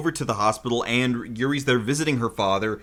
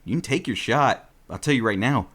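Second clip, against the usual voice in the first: dark menacing threat; 6 semitones lower than usual. Acted. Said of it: "he went dark".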